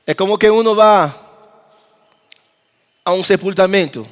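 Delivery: ordinary talk, nothing marked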